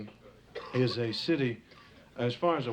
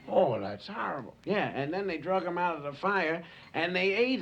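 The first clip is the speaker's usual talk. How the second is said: saber-toothed tigers gossiping. Acted. Comic tiger sounding off to another tiger, lightly voiced.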